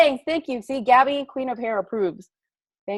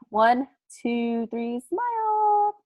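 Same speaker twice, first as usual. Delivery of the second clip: drawn-out photo cue; 3 dB quieter, much slower than usual. Real, not acted. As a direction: coax everyone into smiling for the picture. Taking a group photo.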